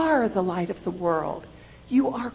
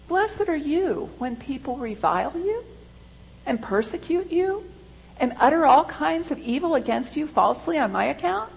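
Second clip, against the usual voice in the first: raised, lifted preaching voice for the quote; quoting Jesus; 7 semitones higher than usual. Acted. Preacher quoting Jesus to the congregation, lifted proclamation. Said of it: "He says".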